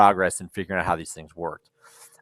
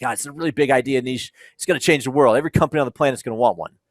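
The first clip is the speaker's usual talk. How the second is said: raised, eager pitch, rushing the last line; agitated friend; 5 semitones higher, faster than usual. Retold or imitated. Friend pitching his big idea to Anish, agitated and excited. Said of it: "he's all agitated".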